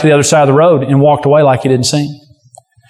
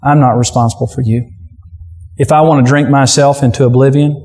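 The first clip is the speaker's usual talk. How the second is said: uncaring attitude; 3 semitones lower than usual. Retold or imitated. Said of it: "exudes an attitude that says".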